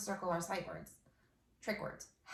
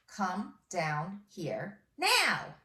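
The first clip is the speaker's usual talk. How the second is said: slow dictation; 5 dB louder, much slower than usual. Shown as a demonstration. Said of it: "dictating slowly".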